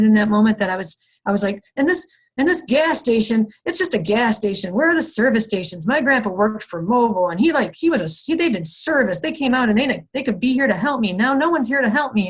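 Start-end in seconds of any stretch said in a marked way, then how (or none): 1.8-12.3 higher, exasperated venting at the empty gas station; a mild mock frustrated rant, pitched up; retold frustrated rant. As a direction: replay the rant like you're stranded and fed up. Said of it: "I was actively frustrated".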